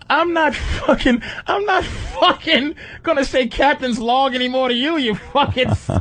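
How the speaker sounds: hammed-up angry puppet; puppet rant. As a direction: rant at him like a crude puppet. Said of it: "And he goes".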